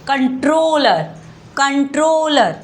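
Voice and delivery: "कंट्रोलर" with a long, weighted middle syllable, ROL; stress on ROL. Shown as a demonstration. Teacher showing why the L doubles, stress on ROL. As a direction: lean on "रोल" in "कंट्रोलर", each time separately. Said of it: "रोल पर जोर डाला जा रहा है".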